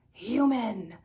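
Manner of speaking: mother spots the human, screams; screaming. Acted. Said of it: "screaming the only word".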